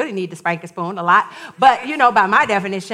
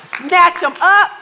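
exasperated inner voice; 4 semitones higher, 5 dB louder than usual. Retold or imitated. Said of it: "I'm thinking".

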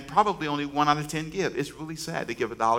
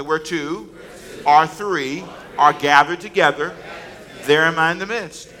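slow, louder recitation; like you mean it; 4 dB louder, slower than usual. Shown as a demonstration. Congregation repeats the verse louder, with conviction. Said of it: "say it like you mean it".

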